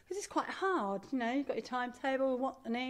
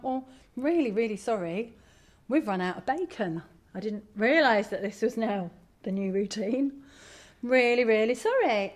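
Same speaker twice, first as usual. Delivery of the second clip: empathetic apology; 3 dB louder than usual. Retold or imitated. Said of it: "I said it with such empathy and sincerity".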